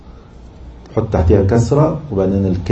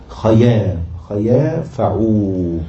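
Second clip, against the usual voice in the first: metrical scansion; much slower than usual. Shown as a demonstration. Scanning verse foot by foot.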